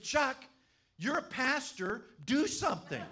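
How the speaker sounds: high, loud imitation of panicking friends; mock panic. Panicking friends begging the pastor to act, high mock panic. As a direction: pitch it way up and plead loudly. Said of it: "they start panicking".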